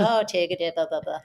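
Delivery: silly fake-Irish patter, tailing off; mock Irish accent. Roommate answering in their shared joke, mock Irish accent. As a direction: trail away in a put-on Irish voice. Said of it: "talking to each other like that".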